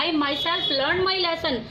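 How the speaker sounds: slow, stressing "myself" firmly; emphatic myself. Shown as a demonstration. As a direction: insist that "myself" did it, drawn out. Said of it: "इसी बात को जोर देकर कहा गया".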